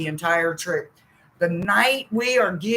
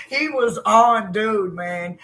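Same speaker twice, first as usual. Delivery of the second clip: usual speaking voice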